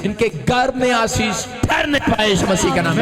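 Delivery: fervent preacher praying at full force; forceful public prayer. Real, not acted. Preacher praying for blessing on their homes, fervent prayer. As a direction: declare each blessing over the crowd, swelling on key phrases. Prays over the women for blessing.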